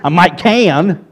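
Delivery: imitated Southern drawl, slow; Southern accent. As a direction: draw "can" out slowly in a Southern accent. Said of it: "this is how she would answer it coming from the South".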